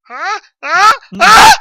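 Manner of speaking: high, loud, puzzled huh; mock guard sensing something; questioning grunts, rising suspicion; suspicious orc grunts.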